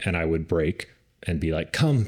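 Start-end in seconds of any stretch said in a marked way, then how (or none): 1.7-2.1 bright, high, loud recall to the dog; high excited dog call. Shown as a demonstration. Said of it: "using my, my dog voice".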